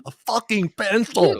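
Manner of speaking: movie line quote. Retold or imitated. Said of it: "I love that line".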